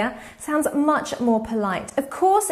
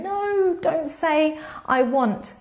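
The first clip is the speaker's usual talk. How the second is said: playful correction; 5 semitones higher, slower than usual. Retold or imitated. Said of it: "I told him".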